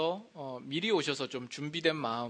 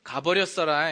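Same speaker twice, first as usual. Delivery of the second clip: Jeolla dialect, a little louder; 6 dB louder than usual. Shown as a demonstration. Pastor demonstrating Jeolla dialect, Jeolla speech. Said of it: "전라도로는".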